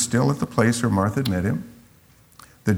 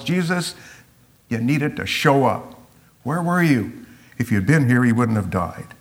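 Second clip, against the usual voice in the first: raised, urgent plea to a late friend; pleading reproach. Pretend. Martha reproaching Jesus for coming too late. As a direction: grab him and demand where he was.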